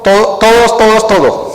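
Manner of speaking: todos hammered again and again; repeated emphasis. Shown as a demonstration. Preacher hammering todos at the congregation. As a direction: drum on todos each time. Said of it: "Dice todo".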